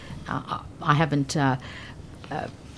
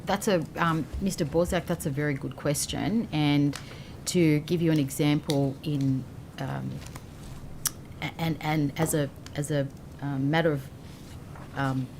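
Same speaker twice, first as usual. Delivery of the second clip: speaking softly, off mic; drifting quiet and hesitant, away from the microphone; too soft for the mic; 7 dB quieter than usual. Real, not acted. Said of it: "could you just pull the mic a bit towards you".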